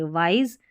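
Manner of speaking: वाइज with a z sound for the s; वाइज, final z buzzed clearly; correct reading. Shown as a demonstration. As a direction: say वाइज ending in a voiced z. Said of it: "ज sound आएगा एस के लिए".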